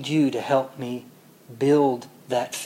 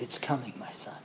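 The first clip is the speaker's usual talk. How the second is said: tender reassurance; 2 semitones lower, 12 dB quieter than usual. Acted. Yeshua voiced answering gently.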